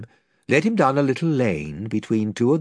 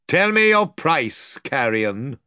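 stern; 3 semitones higher, slower than usual. Acted. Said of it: "said the lord sternly".

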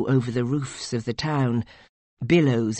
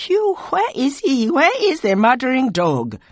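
high, loud, accusing shriek; distraught woman raging; furious cry; 12 semitones higher, 6 dB louder than usual. A narrator's reading. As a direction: demand it in a wild high cry. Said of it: "she cried".

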